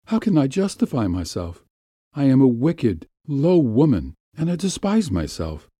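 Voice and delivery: a hint of a pleading young wife; lightly voiced woman. Woman confessing to Gumov, lightly voiced despair.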